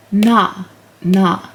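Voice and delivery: "na" as N joined to an open ah; demonstrated syllable. Shown as a demonstration. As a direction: sound out "na" slowly, each one set apart. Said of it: "we can go over again".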